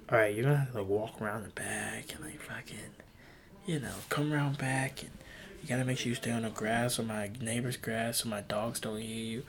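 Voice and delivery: quiet, whispered phone directions; whispered instructions. Retold or imitated. Girl on the phone sneaking him round back, whispered. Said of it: "She was like".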